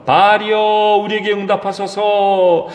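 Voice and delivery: a preacher voicing frantic priests; pleading prophets' cry. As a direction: beg the god to answer, voice lifted. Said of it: "막 그렇게 소리를 냅니다".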